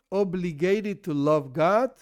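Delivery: "obligated" leaned on and slowed in the question; stress on OBLIGATED. Shown as a demonstration. Teacher repeats the question for students, stressing "obligated". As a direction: draw out "obligated" with deliberate emphasis. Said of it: "stress this word".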